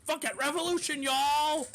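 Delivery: hammed-up Franklin shouting revolution; mock rallying cry. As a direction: yell it like a fed-up rebel. Franklin quoted, fed up and rousing.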